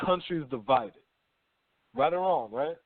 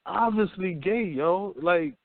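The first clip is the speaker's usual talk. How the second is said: exasperated rant; 4 semitones higher than usual. Retold or imitated. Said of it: "And I'm like".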